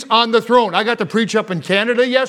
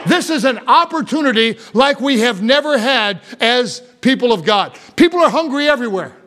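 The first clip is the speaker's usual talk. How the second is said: higher, driving pulpit voice; fiery preaching; 3 semitones higher than usual. Acted. Pastor rousing his church to reach hungry people, full-force preaching. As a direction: preach it hard to the congregation.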